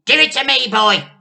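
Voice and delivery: very high, very loud yell; Grandma yelling. A narrator's reading. Grandma yells at George for the cup. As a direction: scream the demand. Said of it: "yelled Grandma".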